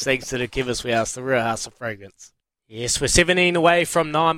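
upbeat radio promo read. Acted. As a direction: sell it like a breakfast show ad.

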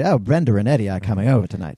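lightly put-on British accent; casual mock British. Shown as a demonstration. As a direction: demonstrate how a British speaker says Brenda. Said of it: "that's the way British people say".

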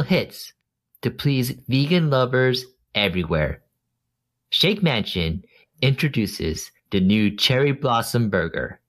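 bad ad read. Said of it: "You didn't do this ad justice".

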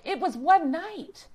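scolding a cat after its one night at the vet, slow and mocking; exasperated. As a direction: tease the clingy cat. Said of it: "I'm like".

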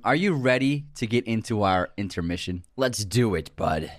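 flat, stiff monotone delivery; robot voice. Real, not acted. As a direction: say it like a machine. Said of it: "why did I sound like a robot there?".

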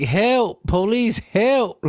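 imitated high cry for help; calling for help. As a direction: act out hailing the police, high and urgent. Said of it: "calling for help".

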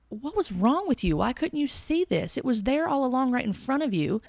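mild retold frustration at oneself; angry self-reproach. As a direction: scold yourself with a touch of anger, no shouting. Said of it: "Being angry with myself".

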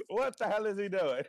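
mock angry yell; a loose impression of a pissed-off Canadian; imitating angry guy. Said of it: "He sounds so much like".

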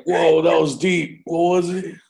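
hint of a wowed stoner losing the thread; mock stoned amazement. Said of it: "like when you get stoned".

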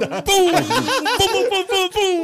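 high hyped chant with laughter; excited. Real, not acted. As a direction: cheer him in, laughing. Hyping a friend joining chat.

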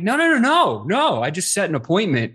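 high, eager rapid no's; excited no no no. Retold or imitated. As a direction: rush to correct him, thrilled. Correcting boss eagerly.

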